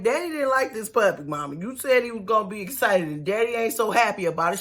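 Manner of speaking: put-on child telling his mother; little boy voice. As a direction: tattle like a small child. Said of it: "Giovanni like".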